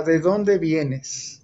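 drawn out, every word very slow; father holding a belt, asking with slow menace. Retold or imitated. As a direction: let the threat hang in each word. Father waits with belt in hand.

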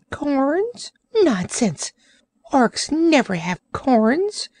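high, offended creature voice; protesting Orc. Acted. Orc protesting to Trot, high offended voice. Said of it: "protested the creature".

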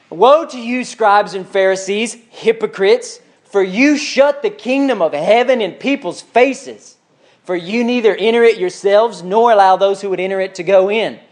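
slow, emphatic denunciation; Jesus, upset. Acted. Jesus rebuking scribes and Pharisees, upset and stern. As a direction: hammer out the accusation sternly. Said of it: "Jesus was upset with them".

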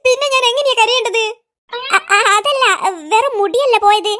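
blubbering through the words; hammed-up tearful wail; faked crying, catching on each syllable; mock sobbing. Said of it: "ഇങ്ങനെ കരയില്ല".

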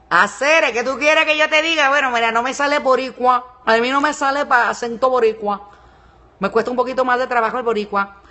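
loud, high put-on Cuban accent. Shown as a demonstration. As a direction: exaggerate a Caribbean, Havana-style Cuban accent. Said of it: "Este es más como cubano". (acento cubano fingido, fuerte y agudo)

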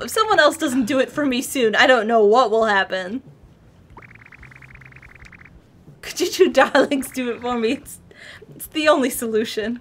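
posh voice. Acted. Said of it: "You keep it up".

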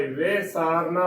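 ਵੇ ਸਾਰਨਾ opening on "ve"; correct short-vowel reading. Shown as a demonstration. Teacher giving the correct reading, ਵੇ ਸਾਰਨਾ opening on "ve". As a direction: begin ਵੇ ਸਾਰਨਾ with an e-like sihari, never "vee". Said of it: "ਉਚਾਰਨ ਕਰਨਾ".

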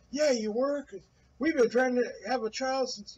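high, pushy mock yell of the husband; mock angry husband. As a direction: squeal it out as the nagging husband.

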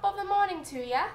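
high, playful stage-Irish greeting; mock Irish accent. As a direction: put on a cartoonish Irish accent. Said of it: "that was, like, Irish".

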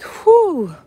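high, loud exhaled whew; overwhelmed whew. Retold or imitated. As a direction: let out a big overwhelmed whew. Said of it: "I get like".

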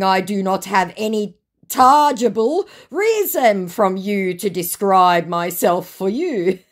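slow, stilted imitation; mocked scammer. Scammer refusing to describe himself, mock stilted. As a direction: labour through it like a mock formal speaker. Reading scammer's garbled English aloud.

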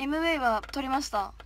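calmer, polite 撮りました; polite rephrase. Shown as a demonstration. Idol correcting herself to polite speech for fans. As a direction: restate it properly, like a polite idol. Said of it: "も う".

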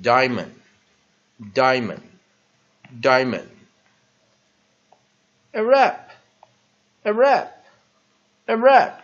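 "diamond" stressed on DIE, "Arab" crisp in two syllables, all loud; model pronunciation. Shown as a demonstration. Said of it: "所以再来一遍".

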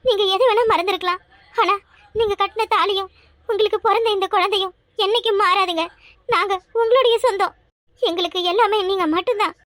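pleading to her husband through tears, voice choked and crying; tearful plea. Acted. Wife begging her forgetful husband to stay, tearful and crying. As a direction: beg him to stay while crying.

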